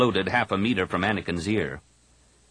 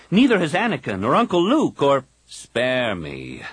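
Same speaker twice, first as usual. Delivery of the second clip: Kip's fervent voice; 6 semitones higher, 3 dB louder than usual. A narrator's reading. Kip urging the Jedi council to fight, insistent. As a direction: preach the fight, every word pressed.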